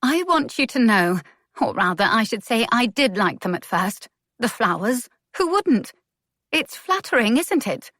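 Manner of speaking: a woman confronting the man who judged her; shaking anger. A narrator's reading. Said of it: "her voice was shaking".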